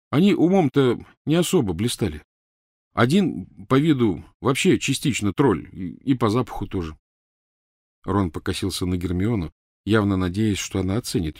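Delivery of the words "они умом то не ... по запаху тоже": lightly voiced, higher young man; wry, animated storytelling; Ron, joking hopefully. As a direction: tell it hoping to amuse. Ron tells his story, hoping for laughs.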